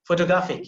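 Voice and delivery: Photographic with the R softened away. Shown as a demonstration. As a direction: model Photographic with next to no R. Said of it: "imagine there is no R".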